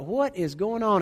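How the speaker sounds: slow, drawn-out bewildered question; puzzled wife. Retold or imitated. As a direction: stretch it out in disbelief.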